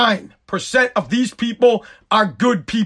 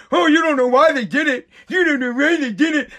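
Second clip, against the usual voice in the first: mocking whine. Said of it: "For those of you that are like".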